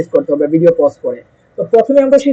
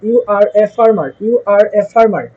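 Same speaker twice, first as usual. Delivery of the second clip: slow drill sentence; much slower than usual. Shown as a demonstration. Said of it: "এখন আপনি বলতে চাচ্ছেন".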